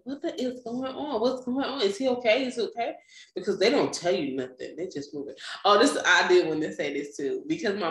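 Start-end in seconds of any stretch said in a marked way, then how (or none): 0.0-3.0 high, urgent frightened asking; begging to know if the baby is okay; panicked questions. Retold or imitated. New mother asking doctors, frightened and high.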